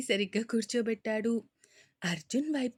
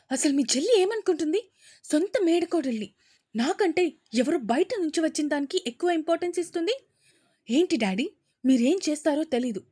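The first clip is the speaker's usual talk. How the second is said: loud, fast, higher furious rant at her father; shouting loudly; 3 semitones higher, 6 dB louder, faster than usual. Acted. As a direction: yell it out fast in outrage. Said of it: "గట్టి గట్టిగా అరుస్తూ".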